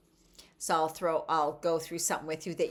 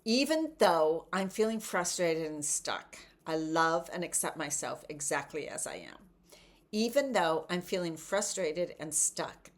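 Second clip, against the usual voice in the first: tapping affirmation. Shown as a demonstration. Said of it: "So just follow me".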